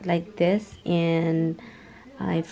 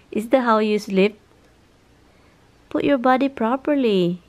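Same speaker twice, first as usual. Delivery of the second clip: sweet nothings. Real, not acted. Cooing at pet dog.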